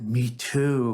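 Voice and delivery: a retold line with a laugh through it; laughing reply. Client admits her own boredom to the therapist, laughing. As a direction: laugh out the two words in a light retold reply.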